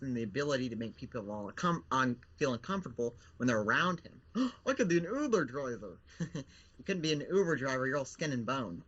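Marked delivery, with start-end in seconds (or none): 4.7-6.0 whiny zombie. Acted. Puppet Bill pitches ideas.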